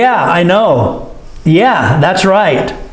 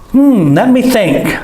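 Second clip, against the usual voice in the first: thinking; 4 semitones higher than usual. Shown as a demonstration. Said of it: "means we're thinking".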